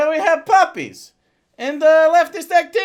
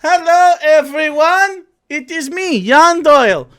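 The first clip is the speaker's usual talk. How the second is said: loud mock host intro; 5 dB louder than usual. Loud show intro in character.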